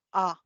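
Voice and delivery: "A" as a short uh, mouth barely open; schwa A. Shown as a demonstration. Teacher showing students the schwa, barely open "A". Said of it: "Apenas es como que abrimos la boca".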